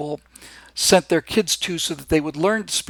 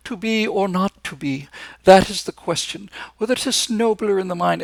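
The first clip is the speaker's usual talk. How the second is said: toffee-nosed RP; 3 semitones higher than usual. Retold or imitated. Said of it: "with that toffee-nosed Shakespeare accent".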